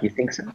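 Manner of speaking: "You think so?" with the voice rising on "so"; rising tag question. Shown as a demonstration. Teacher showing students a tag question, rising on "so". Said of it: "you raise your voice".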